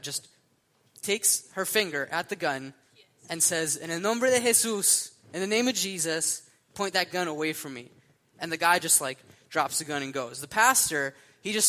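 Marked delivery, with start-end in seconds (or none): 3.8-7.9 loud high rebuke that eases off; bold command. Retold or imitated. Pastor's wife rebuking the gunman, loud and bold. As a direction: command the gunman boldly, then settle.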